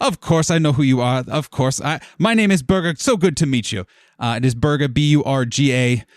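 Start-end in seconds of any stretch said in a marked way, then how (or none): 0.0-3.8 quick, slightly higher, eager greeting; excited welcome. Acted. Office administrator meets the new guild members, mildly excited welcome. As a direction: rush through an eager introduction. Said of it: "while excitedly welcoming".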